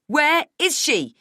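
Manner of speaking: loud, high, slow furious demand; desperate angry shout; yelling. Acted. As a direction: yell each word emphatically. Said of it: "I yell".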